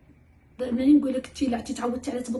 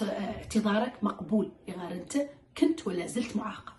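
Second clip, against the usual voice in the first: calm firm parent; 3 semitones lower, 8 dB quieter than usual. Shown as a demonstration. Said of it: "ما تتراجعي عن عقابك".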